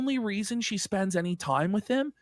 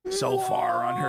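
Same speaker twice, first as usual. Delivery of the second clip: mock whisper; 8 semitones higher than usual. Mock sarcastic whisper aside.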